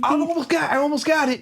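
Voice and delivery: high falsetto woman's voice; mock Elektra. Elektra hacking the terminal, high falsetto mock voice. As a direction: squeak it like a straining hacker.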